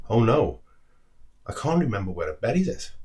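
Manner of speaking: panicked little squirrel realising the nut is lost; dismayed squirrel. Acted. Squirrel discovering its nut is lost, dismayed cry. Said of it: "its voice filled with dismay".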